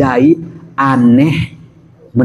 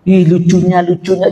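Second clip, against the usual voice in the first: put-on cooing at baby; 5 semitones higher than usual. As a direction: coo over the baby mockingly. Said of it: "Jangan doain tuh anak".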